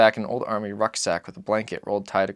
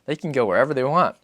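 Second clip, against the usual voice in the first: put-on high, light child's voice; a small boy asking his father; boy's voice; 4 semitones higher, 5 dB louder than usual. Narrator voices the boy asking Papa, high and childlike.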